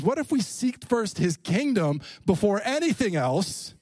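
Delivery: fervent preaching. Real, not acted. Preacher urging the congregation to seek the kingdom first, fervent preaching. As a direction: preach it with drawn-out key words.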